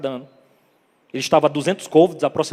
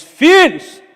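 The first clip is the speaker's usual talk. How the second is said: loud, high call from the shore; shouted call; 8 semitones higher, 10 dB louder than usual. Retold or imitated. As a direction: call out across the water to them. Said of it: "O grito volta".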